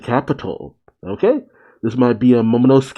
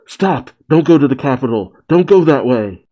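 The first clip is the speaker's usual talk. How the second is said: quick, raised plea to stop; urgent warning; faster than usual. Acted. Momonosuke warning the island off the capital, urgent. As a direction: call out in hurried alarm.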